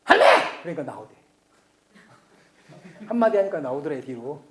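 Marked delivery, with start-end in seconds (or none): 0.0-0.2 Busan dialect call. Retold or imitated. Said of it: "그 부산 손녀가 한마디 하니까".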